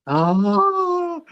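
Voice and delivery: very high, breathless awe; starstruck fan. Retold or imitated. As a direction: melt as your idol sings to you. Fan hears his idol scat sing.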